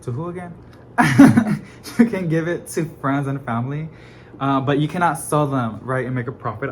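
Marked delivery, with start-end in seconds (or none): 1.0-1.9 bright laugh out loud. Real, not acted. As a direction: burst of laughter. Laughing at own forgetfulness.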